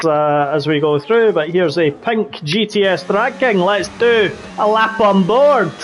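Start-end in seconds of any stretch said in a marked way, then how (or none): 1.3-5.7 put-on Scottish accent. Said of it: "do the rest of the race in the Scottish accent".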